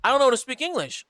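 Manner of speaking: mock German local. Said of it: "a lot of them will be like".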